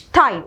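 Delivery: "stein" as shtine, sh before t. Shown as a demonstration. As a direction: begin "stein" with a hushing sh. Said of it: "ഷ്ട് sound ആണ്". ("stein" ഷ് ശബ്ദത്തിൽ തുടങ്ങി)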